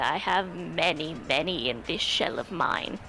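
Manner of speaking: a hint of doting elder calm; kindly old tortoise. Tortoise reassuring the ogre about crockery, slow and kindly.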